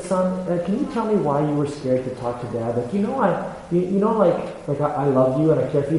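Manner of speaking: soft, careful fatherly asking; retold gentle questioning. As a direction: coax a son quietly, as retold. Father gently questions scared son.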